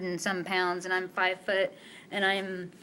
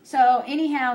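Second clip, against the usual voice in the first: ordinary talk, nothing marked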